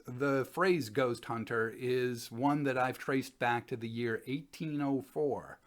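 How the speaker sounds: normal talking voice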